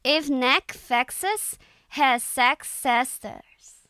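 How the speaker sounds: slow, careful Irish accent reading; tentative Irish accent attempt. Shown as a demonstration. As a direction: read it out slowly in an Irish accent. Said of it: "I'm just reading it in an Irish accent".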